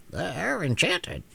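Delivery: slow, drawn-out hen voice; slow reveal. Acted. Hen slowly reveals the children are enchanted. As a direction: let the word land slowly. Billina explains.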